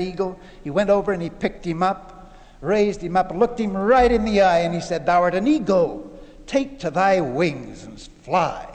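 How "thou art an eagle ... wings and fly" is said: slow, weighty proclamation; stately, measured charge; solemn command. Retold or imitated. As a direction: command it gravely, drawing out the words. Acted solemn command to the eagle.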